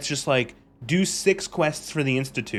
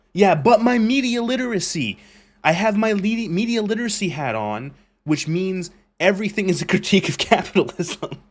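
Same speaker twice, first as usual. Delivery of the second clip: high, louder smug mocking voice; mock smug redditor; 6 semitones higher, 4 dB louder than usual. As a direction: parody a know-it-all fan. Mocking media-literate redditors.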